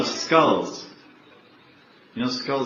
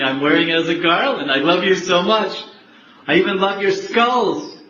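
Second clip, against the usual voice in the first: rising loving declaration. Retold or imitated. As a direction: let the devotion build to a joyful peak. Shiva lovingly answers Parvati.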